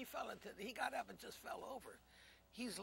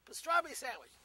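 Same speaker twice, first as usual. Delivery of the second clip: nasal waiter voice; 3 semitones higher, 8 dB louder than usual. Retold or imitated. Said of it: "with the nose".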